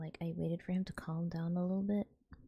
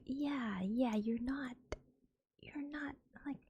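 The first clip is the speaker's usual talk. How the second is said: higher, incredulous half-laughing retort; amused disbelief; 7 semitones higher than usual. Retold or imitated. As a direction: humor a silly patient, barely holding a laugh. Nurse's exasperated reply, amused.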